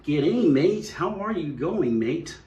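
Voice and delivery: sing-song mock Australian, swooping up; attempted Australian accent. Visitor imitating the locals, exaggerated Australian accent. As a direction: exaggerate an Aussie greeting. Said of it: "tried to do an Australian accent".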